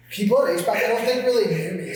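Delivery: laughing while talking; words through laughter. Real, not acted.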